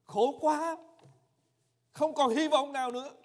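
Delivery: loud desperate plea; crying out. Acted. Exhausted leper begging Jesus, loud desperate cry. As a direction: shout a last plea with all your strength. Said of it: "ráng mà la lên".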